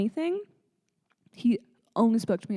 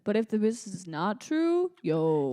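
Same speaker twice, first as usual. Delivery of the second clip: mock Toronto accent. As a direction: join in with put-on Toronto slang. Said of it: "Toronto accents, hot take".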